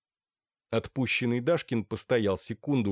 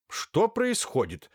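stern; 11 semitones higher, slower than usual. A narrator's reading. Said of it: "строго спросил Андрей Артемьевич".

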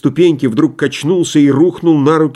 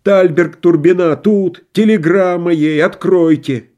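high, begging voice through a door; pleading; 6 semitones higher, slower than usual. A narrator's reading. Stranger behind the door begging to be let in, pleading. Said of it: "Приглушённый голос за дверью взмолился".

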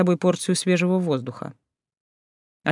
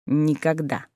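curt cutoff; slower than usual. Acted. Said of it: "отрезал Люций".

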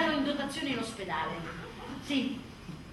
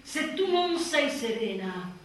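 mock sage advice; 4 semitones lower, much slower than usual. Mother mocking magazine parenting advice, very slow and mock-wise. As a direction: drag it out like a smug guru.

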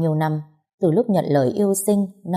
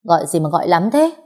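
a mildly snappish, louder pickup; a touch of a cross snap; irritated snap; 4 dB louder than usual. Acted. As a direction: answer the phone annoyed and curt. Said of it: "Tôi bắt máy gắt gỏng".

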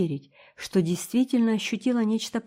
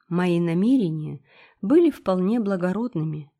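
plain reading voice

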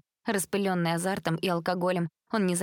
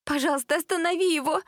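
tearful pleading; 11 semitones higher, 3 dB louder than usual. Acted. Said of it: "просила она Элизабет".

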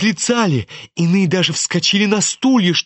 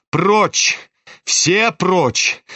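commanding shout; 3 semitones higher, much slower than usual. Acted. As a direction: drive them all back with a shout. Orders everyone away. (властный окрик)

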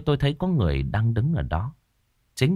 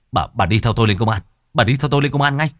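angry demand; 4 dB louder, faster than usual. Acted. Narrator drags her to police.

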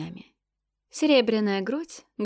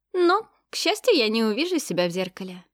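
с иронией; 2 semitones higher, 4 dB louder than usual. Acted. Ироничная реплика девушки.

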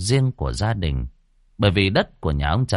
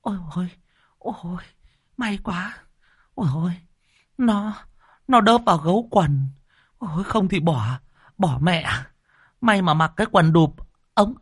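put-on relieved old woman; 9 semitones higher than usual. A narrator's reading. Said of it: "thì phì cười".

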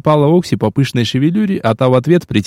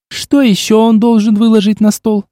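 giggling; 8 semitones higher than usual. A narrator's reading. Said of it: "хихикнула Окси".

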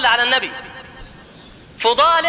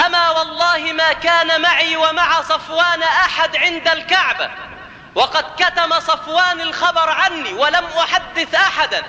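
high, sustained declamatory oath; impassioned testimony; 5 semitones higher than usual. Acted. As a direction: testify in a raised, ringing oratorical voice. (شهادة خطابية بصوت مرتفع النبرة)

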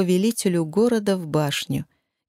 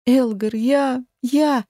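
tearful stammer; 5 semitones higher, much slower than usual. A narrator's reading. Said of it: "залилась беззвучными слезами".

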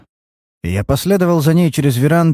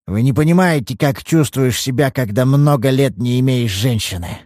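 put-on higher, louder self-pitying old man; whining; 4 semitones higher, 3 dB louder than usual. Old father whining excuses to the detective. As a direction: plead and whine a little. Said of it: "Перестаньте хныкать".

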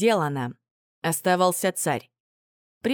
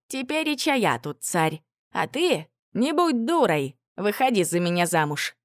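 mustache twirling villain; 2 semitones higher than usual. Acted. Villain proposes to captive tsarevna.

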